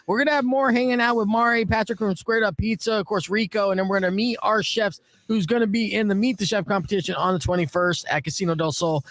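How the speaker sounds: fast, upbeat radio host read; radio promo. Acted. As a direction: sell the upcoming show quickly.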